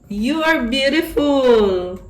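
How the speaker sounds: high, drawn-out gushing praise; real delight, stretched out high; excited exclamation. Real, not acted. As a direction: gush it slowly with a high lift. Exclaims over card drawn for viewer.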